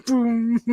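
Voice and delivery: short ringing "boom" like a cymbal; imitated clang. Reader mimicking struck cymbals, ringing boom. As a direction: sound out a struck gong. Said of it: "it makes a clanging sound like cymbals".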